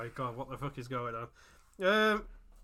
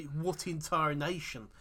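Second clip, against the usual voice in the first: Southern drawl; slower than usual. Retold or imitated. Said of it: "the kind of people who say".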